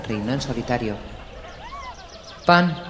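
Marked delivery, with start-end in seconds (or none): 2.5-2.8 higher and louder chant; crowd clamor. A narrator's reading. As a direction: chant it with the mob. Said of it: "era el clamor".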